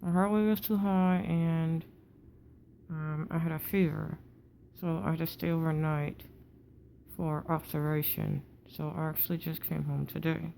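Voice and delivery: talking through a wired-shut jaw. Real, not acted. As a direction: speak with teeth clamped together after jaw surgery. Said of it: "breathing is difficult with your mouth contained like this".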